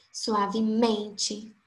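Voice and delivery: suavemente said slowly with MEN drawn out; stress on penultimate. Shown as a demonstration. Teacher gives an example word, suavemente slowed with stress on "men". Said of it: "a penúltima sílaba foi a mais forte".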